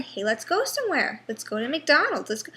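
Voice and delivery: lightly voiced nagging to go to McDonald's; mock eager relative.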